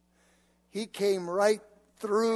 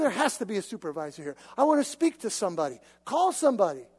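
upset; 3 dB louder, faster than usual. Retold or imitated. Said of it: "upset and frustrated".

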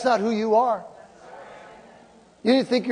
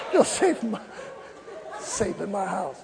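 laughing; 3 semitones lower, 9 dB quieter than usual. Real, not acted. Laughing repetition of doctor's question.

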